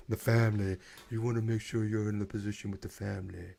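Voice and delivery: weak mock Italian mobster accent, barely there; half-hearted Italian mafia voice; bad Italian accent. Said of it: "that's my worst Italian accent I could probably muster".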